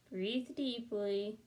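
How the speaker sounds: very slow, calming instruction; slow soothing therapist. Acted. Therapist calming Camilla, very slow. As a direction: draw it out like a hypnotist. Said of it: "she said".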